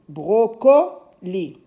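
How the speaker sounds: brocoli said slowly, syllable by syllable; sounded-out word. Shown as a demonstration. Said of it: "j'entends o dans bro". (brocoli lentement, en syllabes)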